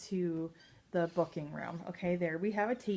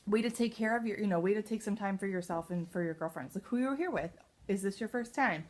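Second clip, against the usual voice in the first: friendly greeting demo. Shown as a demonstration. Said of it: "Um, or".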